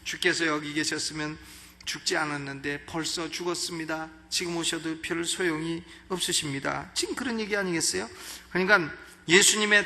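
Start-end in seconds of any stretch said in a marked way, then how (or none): 0.0-6.9 gentle, everyday grumble, a touch softer; a hint of a courteous complaint; polite complaint. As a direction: Martha mildly reproaching Jesus. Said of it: "이게 점잖게 조금 불평을 하는 거죠".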